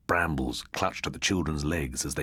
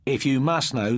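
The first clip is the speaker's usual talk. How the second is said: with dignity; 9 semitones higher, 6 dB louder than usual. A narrator's reading. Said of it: "said Christopher with dignity".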